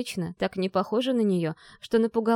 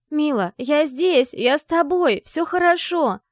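higher, louder, slow call to her sister; 8 semitones higher, 5 dB louder, slower than usual. Acted. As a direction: call out slowly so she hears you. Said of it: "прокричала я".

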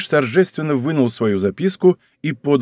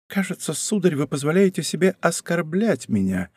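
soft, raised, offended murmur; hushed whisper; 4 semitones higher, 5 dB quieter than usual. A narrator's reading. Princess to the count who insulted her, whispered. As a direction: say it under the breath, affronted. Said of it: "прошептала она".

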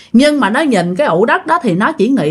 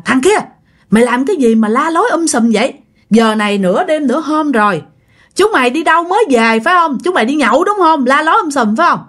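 higher-pitched mock telling-off of rowdy men; rising, accusing questions in a retold rebuke; retold scolding; 5 semitones higher than usual. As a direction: scold like an annoyed squad leader, without really shouting. Squad leader scolding rowdy drinkers at night.

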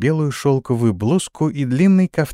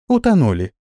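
curt; 4 semitones higher than usual. Acted. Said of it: "кратко бросила Исидора".

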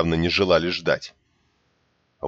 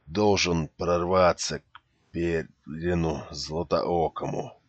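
slow, strained, breathless; forcing words out with little air; gasping for breath; 5 dB quieter, slower than usual. Acted. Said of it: "задыхаясь, прохрипел раненый".

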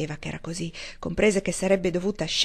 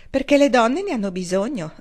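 beaming punchline; 4 semitones higher, 5 dB louder than usual. Acted. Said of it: "con un radioso sorriso".

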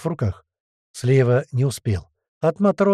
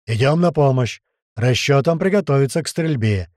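shouting orders; 4 dB louder than usual. Acted. Captain giving battle orders.

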